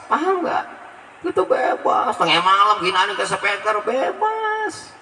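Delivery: high, excited preaching rant that breaks into a shout; worked-up mock rant. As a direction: whip up the crowd with mock outrage. (ceramah berapi-api dengan nada tinggi, setengah berteriak)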